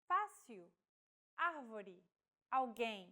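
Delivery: Fácil stressed FA, árvore stressed AR, alguém stressed GUÉM; acute accent stress demo. Shown as a demonstration. Teacher shows accented stressed vowels to learners. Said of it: "indicate a stressed vowel".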